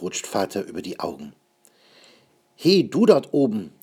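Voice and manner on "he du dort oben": lauter, höherer Ruf zum Kind auf den Schultern; rufen, als ob man jemanden oben anspricht; Ruf nach oben. Acted. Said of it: "ruft Vater". (Vater ruft Schnipperle lauter zu)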